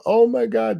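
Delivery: high-pitched mock exclamation; retold gushing exclamation. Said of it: "I'm like".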